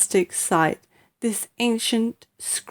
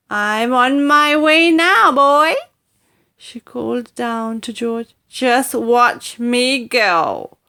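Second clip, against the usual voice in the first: screechy hag calling, higher, loud and slow; 4 semitones higher, 6 dB louder, slower than usual. A narrator's reading. Grandma to George below, screeching boast. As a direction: call down boastfully.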